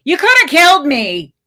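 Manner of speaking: high, loud furious yell; angry yell. Acted. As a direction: scream in outraged anger. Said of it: "yelled the woman".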